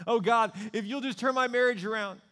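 high, loud cry to God; loud desperate plea. Acted. Preacher voicing a desperate spouse, loud plea. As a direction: plead for the marriage.

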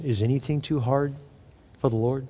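quiet inward asking; soft refrain. Shown as a demonstration. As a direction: ease "Is anything too hard" down, hushed, ending "for the Lord?".

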